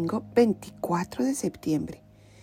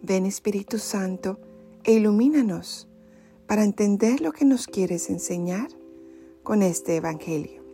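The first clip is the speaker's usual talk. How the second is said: prayer. Acted. Short prayer after reading.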